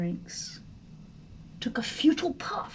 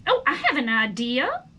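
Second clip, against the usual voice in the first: enthusiastic exclaim; 5 dB louder, faster than usual. Acted. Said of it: "exclaimed enthusiastically".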